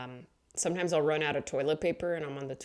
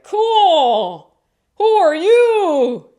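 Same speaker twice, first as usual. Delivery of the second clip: high, loud, bubbly greeting; squealing cheerful hello; excited greeting; 13 semitones higher, 15 dB louder, much slower than usual. Retold or imitated. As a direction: gush at a stranger. Neighbor scene, excited high voice.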